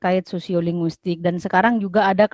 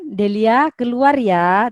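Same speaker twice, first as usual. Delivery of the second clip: softer request; slower than usual. Shown as a demonstration. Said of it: "beda dengan".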